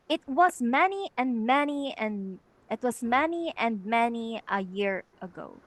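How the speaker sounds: equal stress on both words of "It was", then on through the verse; verse recited with a firm double beat on "It was"; spondee reading. Shown as a demonstration. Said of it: "they are consecutively stressed".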